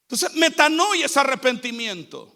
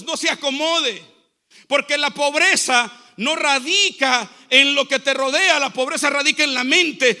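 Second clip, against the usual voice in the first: projected, emphatic sermon delivery; preaching; 3 dB louder than usual. Real, not acted. Preacher urging the church to hate poverty, emphatic preaching. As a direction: preach it out to the congregation.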